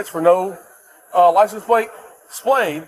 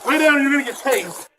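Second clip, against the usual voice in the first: shouted surrender demands; 6 semitones higher, slower than usual. Real, not acted. Officer shouting command.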